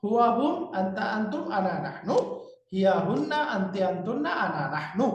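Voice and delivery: sing-song memorization drill; rhythmic list, dropping at each group's end; rhythmic recitation. Shown as a demonstration. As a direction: keep a steady beat through the word pairs. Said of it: "এই ছন্দ ধরে রেখে".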